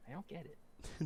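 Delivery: high, slow mock puzzlement; puzzled fan. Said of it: "they meet me, like".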